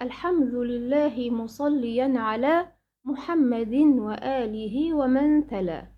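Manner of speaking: slow, measured chant of a verse; slow Quranic-style verse chanting; poem recitation. Acted. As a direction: recite the line slowly like a memorised poem.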